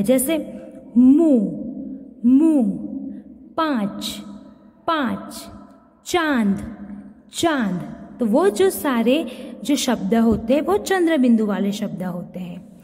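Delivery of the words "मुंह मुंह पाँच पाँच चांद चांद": मुंह, पाँच, चांद said with the mouth opened wide and a nasal vowel. Shown as a demonstration. Teacher shows the mouth opening wide on chandrabindu words. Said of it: "हमारा मुंह ज्यादा खुलता है".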